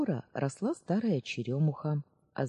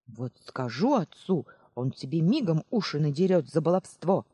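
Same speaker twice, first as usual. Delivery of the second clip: grumbling threat; 5 dB louder than usual. Acted. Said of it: "заворчала тётка Марша".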